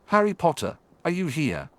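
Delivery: lilting, mocking villain call; sing-song call. A narrator's reading. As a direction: call sweetly, with menace. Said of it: "It was Avery".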